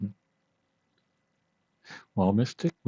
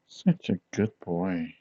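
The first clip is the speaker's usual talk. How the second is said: doting pet talk; slower than usual. Acted. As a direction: coo it slowly like to a dog. Petting friend like a dog.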